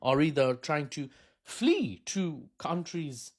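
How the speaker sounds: speaking with hiccups; hiccuping. Real, not acted. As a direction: hiccups breaking the words. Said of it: "sorry, I'm hiccuping".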